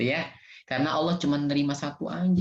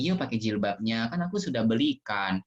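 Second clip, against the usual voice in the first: gentle coaxing. Shown as a demonstration. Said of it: "Pelan-pelan ngomongnya".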